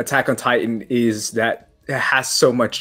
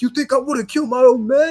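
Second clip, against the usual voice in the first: play-acted, very high, shrill villain's taunting yell; 14 semitones higher than usual. Retelling Levi yelling at Zeke: imitating Levi yelling. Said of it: "yelling at him".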